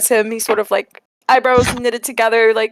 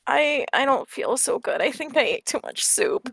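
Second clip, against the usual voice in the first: mild queasy whine, on the soft side; sick kid softly complaining; whining; 6 dB quieter than usual. Acted. Sick child telling Epic about the soup, whining. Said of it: "he's sort of, like, whining".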